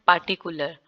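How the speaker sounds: पार्टिकुलर with the R dropped; पार्टिकुलर without R; British way. Shown as a demonstration. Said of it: "जो British हैं".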